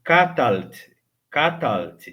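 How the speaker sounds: Catalt in two beats, L straight into T; careful Catalt, L unemphasized; preferred short Catalt. Shown as a demonstration. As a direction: model Catalt with no vowel after the L. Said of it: "É bem melhor você pronunciar".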